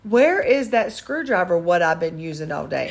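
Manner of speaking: mock slow repeat. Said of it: "What did you just say".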